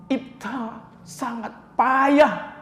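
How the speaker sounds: drawn-out grieving cry, slow; slow lament. Retold or imitated. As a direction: stretch it like a grieving daughter. Fatimah's lament voiced.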